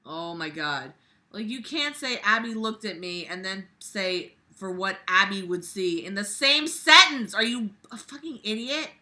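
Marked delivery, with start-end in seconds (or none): 1.3-8.9 exasperated rant. Real, not acted. Ranting at the author's clumsy writing. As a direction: tear into the author.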